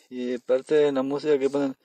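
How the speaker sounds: ordinary talk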